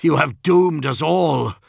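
betrayed captain accusing the traitor, loud; anguished cry. A narrator's reading. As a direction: hurl the blame at him. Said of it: "he cried".

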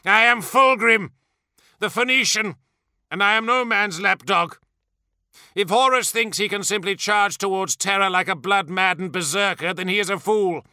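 high, imperious tirade; haughty, ringing outrage; enraged rant. A narrator's reading. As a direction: assert your greatness in fury. Enraged primarch rants at officer.

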